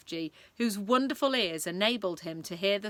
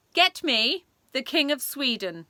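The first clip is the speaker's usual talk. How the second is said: commanding Queen; 6 semitones higher, 6 dB louder than usual. Acted. Queen demands a phone call.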